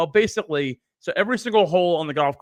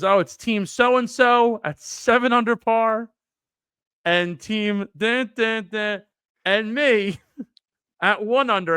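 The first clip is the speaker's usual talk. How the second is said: higher, drawn-out announcer delivery; mock announcement; 5 semitones higher, slower than usual. Organizer naming the tied teams to the crowd, announcing. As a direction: stretch out each team like a roll call.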